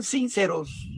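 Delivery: "sinceros" with the weight on its first i, "SÍN-ceros"; stress on the i. Shown as a demonstration. Preacher to the congregation: "sinceros" stressed on its first i. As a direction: lean hard on the i of "sinceros". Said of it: "con acento en la I".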